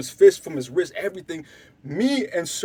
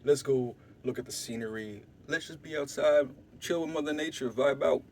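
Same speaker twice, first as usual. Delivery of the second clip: hushed suggestion; 6 semitones lower, 9 dB quieter than usual. Retold or imitated. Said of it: "So I'm like".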